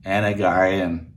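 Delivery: fast, clipped Austrian "أنا جعان"; Arnold Schwarzenegger accent. Shown as a demonstration. Learner says "I'm hungry" in Arnold accent. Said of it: "with an Arnold Schwarzenegger accent".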